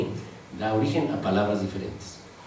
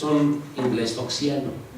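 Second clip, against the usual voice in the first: laughing; slower than usual. Real, not acted. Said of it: "Ese es el que se puso de moda".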